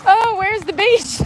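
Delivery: a clueless tourist voice; silly put-on voice. Mock passenger asking.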